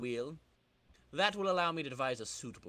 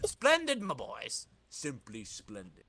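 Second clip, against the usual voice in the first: put-on pleased old villain; 3 semitones lower, slower than usual. Tinkerer praising his helpers, relishing. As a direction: savor each word with Cajun-free villain glee.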